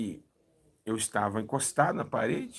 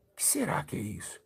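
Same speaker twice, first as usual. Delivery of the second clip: voiceless whisper, much softer; 4 semitones lower, 8 dB quieter than usual. Retold or imitated. Watching the bandage unroll, whispering to himself. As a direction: hush it to yourself in wonder. Wondering privately during sermon.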